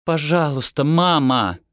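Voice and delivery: a mild, worn-out plea; pleading. A narrator's reading. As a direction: beg mother with the last strength left. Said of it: "взмолилась Декла из последних сил". (взмолилась из последних сил)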